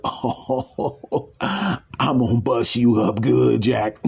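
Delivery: a hint of a gleeful devil; gloating devil. Devil gloating at the new arrival, gleeful. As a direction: relish the torture to come.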